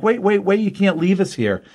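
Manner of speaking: high-pitched mock plea; retold pleading. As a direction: imitate stranded guys begging. Stranded attackers plead with her.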